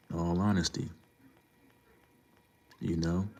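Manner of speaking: breathy, voiceless aside to the chat; whispered aside. Real, not acted. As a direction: drop to a whisper, just between us. Aside on live stream.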